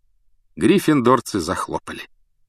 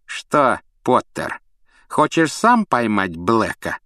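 sly taunt; 3 semitones higher, slower than usual. Acted. Malfoy taunts Harry.

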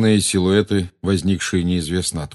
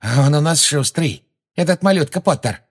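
mocking sing-song; 8 semitones higher, 3 dB louder than usual. A narrator's reading. Bellatrix taunts gleefully.

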